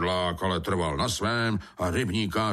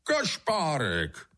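delighted cry of discovery, pitched up; higher-pitched eureka exclamation; exclaiming; 6 semitones higher than usual. A narrator's reading. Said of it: "Kudla vykřikl".

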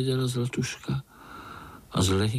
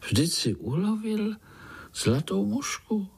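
much higher, sweet fairy-tale voice; magic golden fly; 7 semitones higher than usual. Acted. Golden fly offering the spider a wish, high and sweet. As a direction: promise a wish like a tiny fairy. Fly reads his thoughts.

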